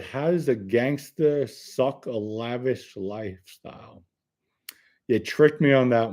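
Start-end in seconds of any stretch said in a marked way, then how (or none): 0.0-4.0 puzzled reread. Shown as a demonstration. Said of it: "I really don't know what you mean".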